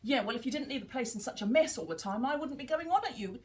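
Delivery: mock sulky parent-turned-child; rebellious child. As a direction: sulkily hit back at your daughter. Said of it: "I slipped into rebellious child".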